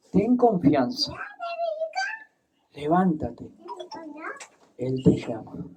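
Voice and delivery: soft, falling, calm encouragement; gentle reassurance. Acted. People telling the blind man Jesus calls him, gentle reassurance. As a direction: coax him up quietly. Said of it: "Y llamaron al ciego diciendo".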